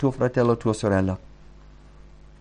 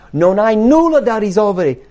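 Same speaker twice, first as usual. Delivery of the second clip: emphatic preaching; 8 semitones higher, 6 dB louder than usual. Acted. Preaching climax.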